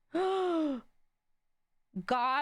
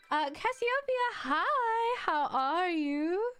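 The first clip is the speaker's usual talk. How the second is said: excited greeting; 7 semitones higher, slower than usual. Real, not acted. Greeting a new chat viewer.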